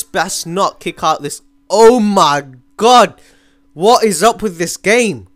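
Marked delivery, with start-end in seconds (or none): 1.7-5.3 exasperated rant. Real, not acted. Game glitching, frustrated.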